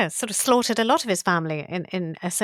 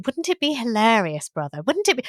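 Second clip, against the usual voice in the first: witchy voice; 3 semitones higher than usual. Retold or imitated. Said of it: "like some horrible Lady Macbeth".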